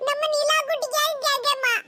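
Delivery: mock-tearful little child pleading; crying child. Child asks mother on little Nila's behalf, tearful pleading. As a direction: plead through put-on sobs. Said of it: "இப்ப எதுக்கு அழுதுட்டு இருக்க?".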